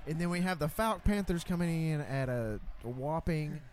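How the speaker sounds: hometown announcer voice. Pretend. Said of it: "a hometown voice".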